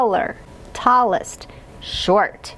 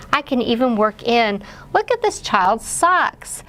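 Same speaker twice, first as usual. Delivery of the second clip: put-on asking a child about pictures; 3 semitones higher than usual. Shown as a demonstration. Parent asking a young child about the picture, lightly animated. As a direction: coax the child to look and count. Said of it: "I'm gonna give you some examples".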